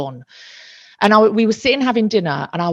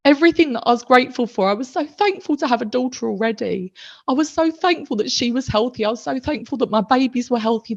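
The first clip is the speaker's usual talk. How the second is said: higher, emotional recounting; close to tears; 4 semitones higher than usual. Real, not acted. Mother listing what she was thankful for, close to tears. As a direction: hold back real tears while listing blessings. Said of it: "I feel like I'm gonna cry again".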